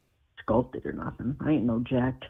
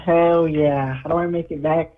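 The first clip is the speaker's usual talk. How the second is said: muffled speakerphone sound; talking from far off on speaker. Real, not acted. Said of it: "You sound like you're in a bunker".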